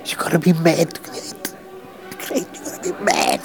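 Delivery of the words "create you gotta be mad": breathy whisper, pitch dropped. Acted. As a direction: whisper it like a secret. Repeats the line, second time whispered.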